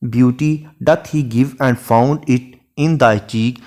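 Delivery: lingering over each word of the sonnet; unhurried classroom recitation of Shakespeare; slow poem recitation. Shown as a demonstration. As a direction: read the verse very slowly and evenly. Recites sonnet line in English.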